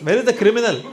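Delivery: high, urgent mock protest; questioning parent. Dad questioning his child about killing policemen, high-pitched mock protest.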